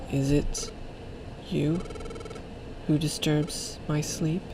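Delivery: soft, halting voice from sleep; hushed mystery voice; mysterious awakened creature. Acted. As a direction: speak softly, with long pauses, as a disturbed sleeper. Voicing a sleeping legendary Pokemon.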